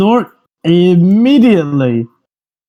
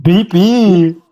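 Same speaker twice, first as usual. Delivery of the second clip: robot beeps; slower than usual. Acted. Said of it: "Jeeves ... easiest character to voice".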